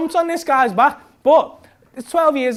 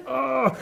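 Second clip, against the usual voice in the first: mock strained "ugh"; choking-effort grunt; 4 semitones higher than usual. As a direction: grunt as if squeezing a chokehold. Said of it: "and I'm going".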